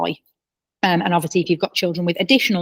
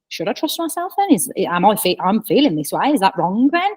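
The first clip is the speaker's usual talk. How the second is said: put-on confused child; 3 semitones higher than usual. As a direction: sound small and puzzled.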